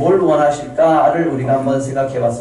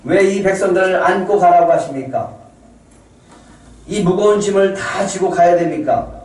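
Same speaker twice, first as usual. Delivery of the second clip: Moses's protest, raised in pitch; burdened, questioning appeal; complaining to God; 4 semitones higher than usual. Acted. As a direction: lay an aggrieved complaint before God. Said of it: "모세도 하나님을 향해서 불평합니다".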